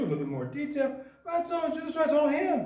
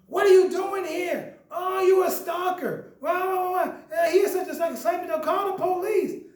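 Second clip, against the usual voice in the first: louder, higher, panicked; alarmed shouting woman; 5 semitones higher, 4 dB louder than usual. Retold or imitated. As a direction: accuse him loudly of stalking. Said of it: "So she come".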